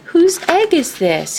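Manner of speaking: put-on a child calling across the pond. A narrator's reading. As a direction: call out to whoever owns the egg. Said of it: "he called".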